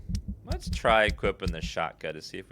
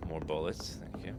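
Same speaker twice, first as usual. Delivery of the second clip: whisper; 2 semitones lower, 9 dB quieter than usual. Real, not acted. Quietly asking the shop.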